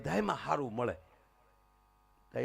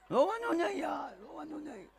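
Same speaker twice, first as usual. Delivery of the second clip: put-on soothing a child; 14 semitones higher than usual. Soothes a lost crying child.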